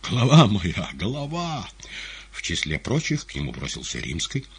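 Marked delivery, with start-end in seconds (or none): 0.1-1.7 high, loud lament, trailing off; plaintive cry. A narrator's reading. Compère mourning his head, plaintive cry. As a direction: wail pitifully over the loss. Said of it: "Он жалобно вскрикнул".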